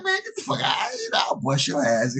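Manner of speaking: high mock shout of disbelief; mock tough shout. To his friend who talks tennis, a high mock shout. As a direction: yell it high, brushing him off. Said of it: "I'm like".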